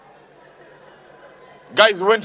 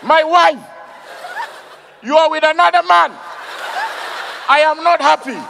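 hammed-up fake anger; 5 semitones higher than usual.

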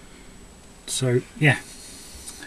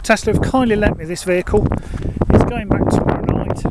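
raised voice over the wind; shouting over wind; 6 semitones higher than usual. Real, not acted. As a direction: talk up over a gusty wind. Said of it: "hope you can hear me over the wind".

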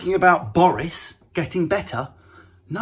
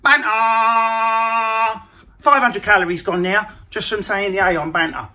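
Joe Wicks impression. Joe Wicks leading a home workout, mildly peppy. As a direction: bounce it like an upbeat trainer. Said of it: "Chuck out a Joe Wicks".

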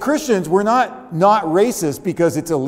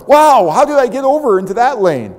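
1 startled; 5 semitones higher, 5 dB louder than usual. Retold or imitated. Driver drifting, caught by surprise.

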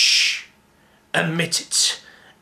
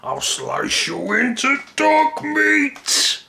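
menacing threat; 12 semitones higher, slower than usual. Acted. Villain threat.

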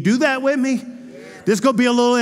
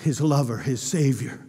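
tender; 10 semitones lower, 6 dB quieter than usual. Shown as a demonstration. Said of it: "he's leaning into".

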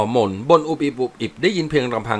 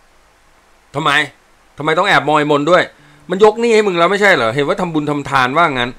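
teasing sergeant; 5 semitones higher, 6 dB louder, slower than usual. Acted. Sergeant teases private.

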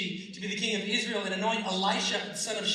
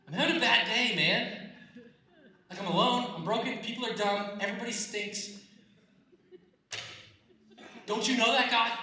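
louder, higher, laughing whine; laughing mock complaint; 6 semitones higher, 4 dB louder than usual. Preacher voices Elijah whining to God, laughing. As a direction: play a grumpy prophet for laughs.

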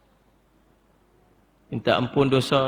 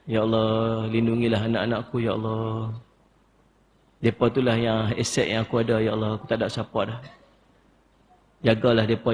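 demonstrated humble supplication; humble pleading prayer; 2 semitones lower than usual. Shown as a demonstration. Models a parent's pleading prayer.

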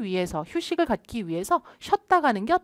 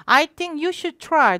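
slow drill; 5 semitones higher, 3 dB louder, much slower than usual. Shown as a demonstration. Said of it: "발음 길게 하지 마시고".

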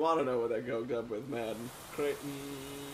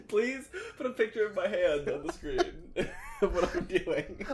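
laughing; 3 semitones higher than usual. Real, not acted. Laughing request to editor.

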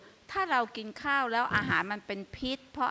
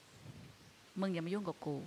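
พ่อไล่ลูก; 3 semitones lower, 12 dB quieter, much slower than usual. Acted. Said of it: "บอกว่า".

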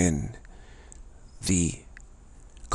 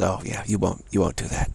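mocking ego; 2 semitones lower, 6 dB quieter than usual. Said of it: "laughs at you and says".

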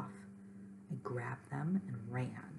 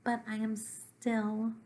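mildly distressed complaint, slowing and rising at the end; upset Gorp, a little monster; 5 semitones higher, 4 dB louder than usual. Acted. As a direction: plead that nothing has worked.

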